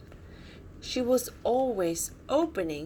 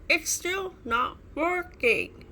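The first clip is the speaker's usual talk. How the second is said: sighing; 8 semitones higher, 4 dB louder than usual. A narrator's reading. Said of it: "sighed Ava".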